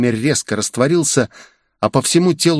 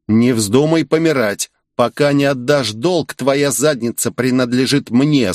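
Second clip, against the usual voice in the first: mild growl; 2 semitones higher than usual. Acted. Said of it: "злобно прорычал Ичиро".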